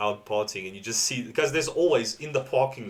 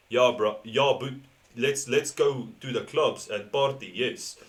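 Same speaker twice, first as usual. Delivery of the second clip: light imitation of a Joburg Afrikaans accent, a bit slower; slower than usual. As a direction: loosely mimic an Afrikaans guy inviting a mate out partying. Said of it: "he talks like this".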